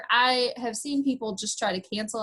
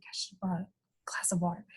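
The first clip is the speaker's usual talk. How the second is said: losing voice; faster than usual. Real, not acted. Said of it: "I'm losing my voice".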